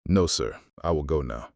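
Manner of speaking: meek surrender. Acted. Meekly giving up to agents.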